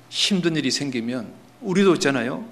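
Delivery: ordinary talk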